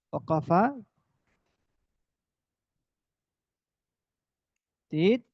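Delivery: ওয়াকাফাতিত stretched very slowly; drawn-out phrase. Shown as a demonstration. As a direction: slowly drag out ওয়াকাফাতিত as you write. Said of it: "word drawn out while writing". (ওয়াকাফাতিত শব্দটি খুব ধীরে টেনে বলা)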